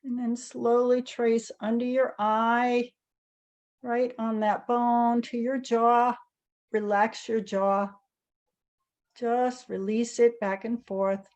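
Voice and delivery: calm, unhurried guiding with long pauses; guided meditation. Real, not acted. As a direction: gently lead a group through each movement, leaving space between phrases. Leads guided tapping meditation.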